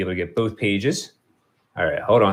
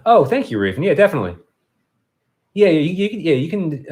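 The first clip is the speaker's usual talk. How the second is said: delighted thanks; 7 semitones higher, 4 dB louder than usual. Real, not acted. Thanking a chat viewer.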